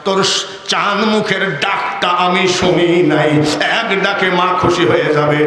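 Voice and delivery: forceful rhythmic sermon delivery; impassioned preaching. Acted. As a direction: preach it in a steady driving cadence.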